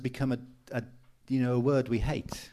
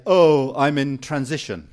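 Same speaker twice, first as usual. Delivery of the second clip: heavy sigh; 10 dB louder than usual. Retold or imitated. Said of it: "the way they say it is this".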